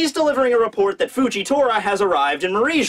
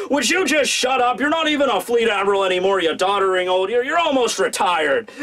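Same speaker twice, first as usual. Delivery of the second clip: mock yell; 3 semitones higher than usual. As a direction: imitate a boss snapping at an old-timer. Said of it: "Akainu just kinda yells over at him".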